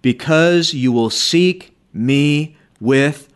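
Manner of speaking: slow, solemn reading of the Lord's words; preacher reading God's promise slowly; scripture reading. Acted. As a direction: let each promise land slowly. Reads God's words from Jeremiah.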